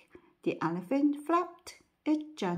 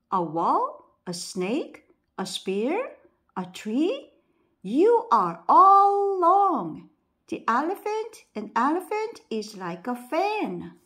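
rising to a loud, high, slowed-down shout on "You are all wrong"; 7 semitones higher, 7 dB louder than usual. A narrator's reading. Blind man shouting down the others in an argument. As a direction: build up to a yell at the others. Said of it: "The fifth man started to shout".

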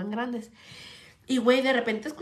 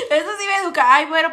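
loud; 5 semitones higher, 12 dB louder, faster than usual. Real, not acted.

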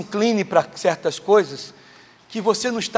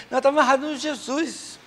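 a higher, stubborn churchy denial; high mock denial; 7 semitones higher than usual. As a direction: her voice pitched up, dragging out Jesus. Woman denying problem to pastor.

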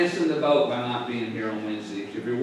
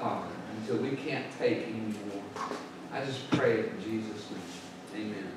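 soft, low congregational prayer; 5 semitones lower, 8 dB quieter than usual. Real, not acted. Pastor praying to Father for the congregation, hushed prayer. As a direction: pray quietly, dropping low at the ends.

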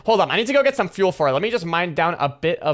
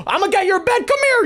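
playful taunt; 12 semitones higher than usual. Real, not acted. Charging at friend's bed.

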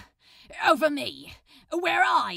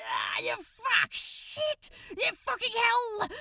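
yelping curses in alarm; panicked outburst; 11 semitones higher than usual. Acted. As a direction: caught out and panicking.

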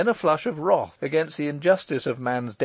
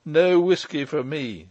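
Michael; 4 semitones higher, 5 dB louder than usual. Acted.

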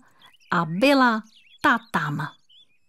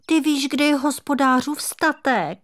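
high, eager little kitten voice; a lost kitten suddenly full of hope; overjoyed kitten; 5 semitones higher than usual. A narrator's reading. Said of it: "zaradoval se kocourek". (radostný kocourek, vyšší hlásek)

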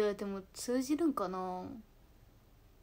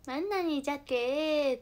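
slow, higher Hiroshima-dialect lilt; cute Hiroshima dialect; 4 semitones higher, slower than usual. Retold or imitated. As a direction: draw out the Hiroshima "jakee" endearingly. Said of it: "っていうのは可愛いなと思って". (可愛らしく伸ばした広島弁)

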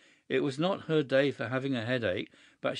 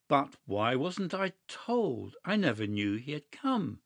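exclaiming; 3 semitones higher than usual. Acted. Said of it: "exclaimed Huddle".

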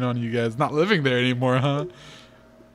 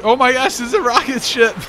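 high, loud excited squeal; 10 semitones higher, 8 dB louder than usual. Real, not acted. The player seeing the rocket ship, high loud excitement. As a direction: burst out in real delight.

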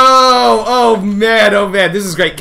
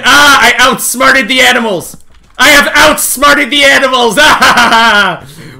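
gloating laugh; 3 semitones higher, 3 dB louder than usual. Real, not acted. Gloating after tricking animals.

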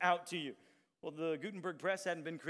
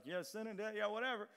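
bored yawning; 2 semitones higher, 6 dB quieter than usual. Retold or imitated. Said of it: "you're yawning like".

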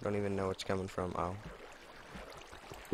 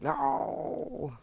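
shocked cry. Retold or imitated. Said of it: "I was like".

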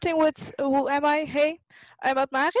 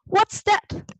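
high, louder startled question; surprised cry; 9 semitones higher, 7 dB louder than usual. Acted. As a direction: gasp it out like a curious child. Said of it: "cried Miffy".

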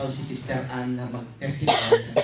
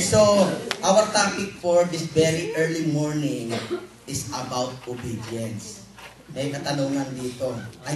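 preaching. Real, not acted. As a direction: announce the topic from the pulpit. Pastor begins preaching.

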